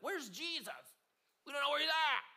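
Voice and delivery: high, loud mock-panicked disciples; disciples' alarm. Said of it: "be like".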